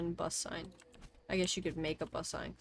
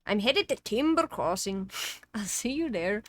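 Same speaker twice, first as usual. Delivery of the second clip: louder retry of the character voice; game character voice; 4 semitones higher, 8 dB louder than usual. Acted. Game character announcing departure, louder put-on voice. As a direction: have a firmer go at the put-on voice. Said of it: "what was the fucking voice that I was doing for him".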